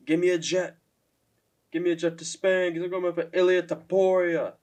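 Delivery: a mild imitation of a half-hearted demand; O'Malley's flat call-out. Vlogger mimics O'Malley's callout, a touch flat and unexcited. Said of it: "the way, like, he's like".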